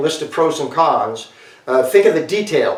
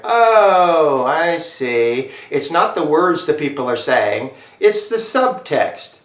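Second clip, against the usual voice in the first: drawn-out "oh" of dawning understanding; acted realization; much slower than usual. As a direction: act out a student slowly getting it. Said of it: "And you're like".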